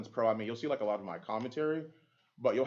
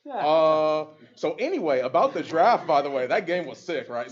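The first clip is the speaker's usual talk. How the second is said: loud, high, hasty change of subject; awkward loud deflection on camera after the mix-up; playing it off; 6 semitones higher, 10 dB louder than usual. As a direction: cover the blunder by loudly moving on. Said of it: "So I had to play it off".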